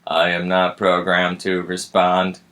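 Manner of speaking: slow flat robot voice. Acted. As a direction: speak like a machine. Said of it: "that's a response".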